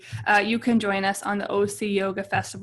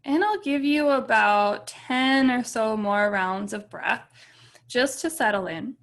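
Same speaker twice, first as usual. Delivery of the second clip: calm meditation guide with long, settling pauses; guided meditation. Real, not acted. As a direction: ease them gently into stillness, leaving space between phrases.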